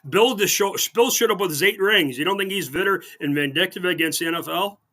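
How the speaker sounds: mock praise, heavy irony; sarcastic. Real, not acted. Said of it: "I'm being very sarcastic".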